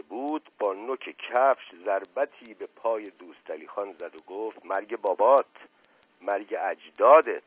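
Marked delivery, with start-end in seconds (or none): 4.7-7.4 loud mock curse while kicking. Kicking the bedridden man, cursing him in mock anger. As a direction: snap the curse back at him.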